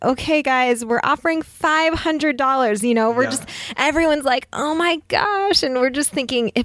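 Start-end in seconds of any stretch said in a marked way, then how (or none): 0.0-2.8 put-on desperate, pleading announcer-style delivery. Speaker retelling what was said over the intercom, mimicking a desperate announcement. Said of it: "with like this desperate voice and said".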